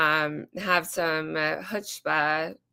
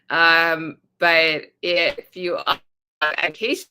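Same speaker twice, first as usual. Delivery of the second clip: breaking up; 3 dB louder than usual. Real, not acted. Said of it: "you're breaking up".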